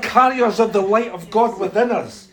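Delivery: loud, high, fervent declaration; rally the congregation with full conviction; rousing preaching. Real, not acted. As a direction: preach it out, building on each phrase. Preacher exhorts responding congregation.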